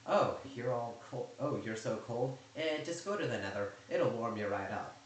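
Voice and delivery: dry, teasing sarcasm; sarcastic joke. Retold or imitated. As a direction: toss it off as a snide joke. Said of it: "casual, sarcastic joke".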